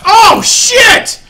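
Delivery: high, loud screamed swearing; real panicked, angry outburst; alarmed cursing. Real, not acted. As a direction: yell out as things suddenly go wrong. Sudden mishap in game, player screams.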